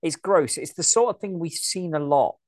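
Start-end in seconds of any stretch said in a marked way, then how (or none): 0.0-0.6 loud mock disgust; mocking a disgusted victim; disgusted reaction. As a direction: recoil at it loudly. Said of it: "and it's like".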